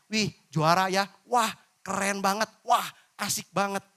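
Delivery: bright friendly praise without slang; clean cheerful praise. Shown as a demonstration. Preacher shows the clean alternative, friendly and upbeat. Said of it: "Padahal bisa dirubah dengan kata".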